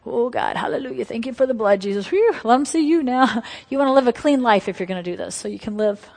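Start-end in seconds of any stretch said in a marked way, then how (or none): 0.1-3.4 higher and louder, rising hallelujah; a touch of revival-shout triumph; exultant praise. Retold or imitated. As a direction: burst into joyful praise. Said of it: "And you're like".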